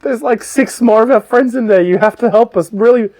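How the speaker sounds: high-pitched, hammed-up sob story; pleading gnomes. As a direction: beg for rescue as a hard-done-by little gnome. Gnomes beg for rescue, acted.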